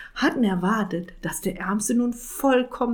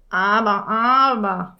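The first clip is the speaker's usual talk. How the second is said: terrified croak; 5 dB louder, slower than usual. Acted. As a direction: croak it out in horror. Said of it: "krächzte Jakob entsetzt".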